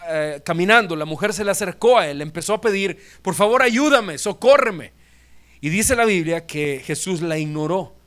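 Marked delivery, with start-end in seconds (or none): 3.2-4.9 a higher, louder plea for help; a mother crying out for her sick child's rescue; pleading woman. Acted. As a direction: beg him to help her. Woman begging Jesus for help.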